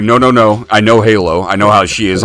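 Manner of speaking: firm warning. Retold or imitated. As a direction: talk her down firmly before it spreads. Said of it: "And I'm like".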